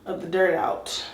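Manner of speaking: breathless from scrubbing; panting a little while talking; out of breath. Real, not acted. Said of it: "I'm really out of breath".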